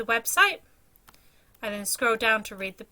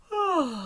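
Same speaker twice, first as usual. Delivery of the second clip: elephant's big sigh; 6 semitones higher than usual. Acted.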